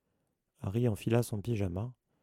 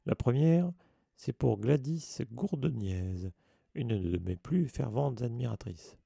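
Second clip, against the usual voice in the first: vain showman; 2 semitones higher, slower than usual. Acted. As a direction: savour every word of your own fame. Vain Lockhart boasting about fans.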